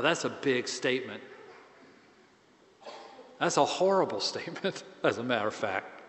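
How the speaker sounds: normal talking voice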